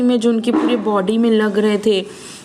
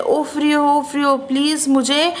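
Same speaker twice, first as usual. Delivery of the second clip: calling high across the storm; 5 semitones higher than usual. Acted. Boy calling Ofrio from across the stormy river, higher. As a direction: call his name across the river. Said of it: "मतलब कोई चिल्लाता है".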